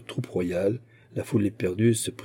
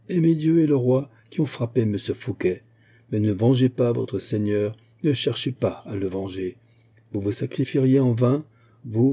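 solemn oration to a crowd; solennel; 2 semitones higher than usual. A narrator's reading. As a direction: exhort them with measured authority. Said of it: "répliqua solennellement Aramis". (solennellement, en haranguant la foule)

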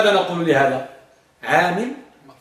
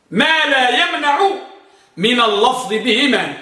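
higher, slow phrase-by-phrase dictation; slow raised dictation; 5 semitones higher than usual. Shown as a demonstration. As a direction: dictate the rule slowly for writing down. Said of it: "سجلوا ضابطه".

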